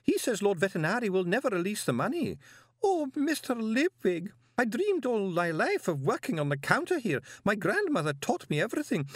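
high-pitched, tearful lament; wailing woman. A narrator's reading. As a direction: pour out your woes in a high wail. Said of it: "the woman sobbed".

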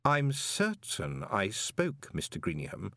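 silky patrician warning; cold rebuke. Acted. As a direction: let the rebuke land slowly. Vetinari rebuking.

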